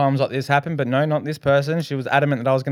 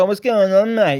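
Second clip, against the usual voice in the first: imitating the guy; 8 semitones higher, 6 dB louder than usual. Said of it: "he looks at me and he's like".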